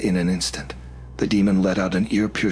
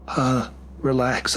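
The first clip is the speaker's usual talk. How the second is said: put-on slow, higher, soothing young man; a hint of a calming guy; lightly voiced young man; 6 semitones higher, slower than usual. A narrator's reading. Jacek soothing her.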